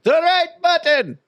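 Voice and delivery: high, slow, insistent instruction; exasperated scammer impression. Scammer walking old lady through computer, slow mock patience.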